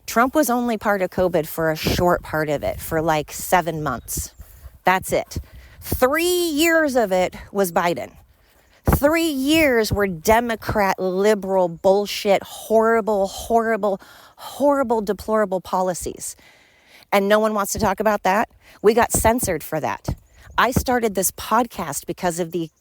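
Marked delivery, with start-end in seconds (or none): 5.8-16.3 fired up. Real, not acted. Podcaster ranting about Biden's covid years, fired up. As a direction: hammer the horrible list in mounting anger. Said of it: "Sorry, I'm getting fired up".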